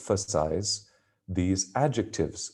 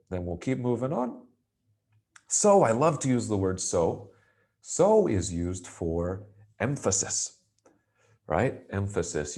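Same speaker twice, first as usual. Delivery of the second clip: ordinary delivery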